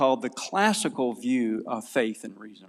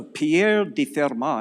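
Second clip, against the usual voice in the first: slow, lightly French-accented Pierre de Fermat; name drawn out in mild French style; slower than usual. Shown as a demonstration. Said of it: "say that with a French accent".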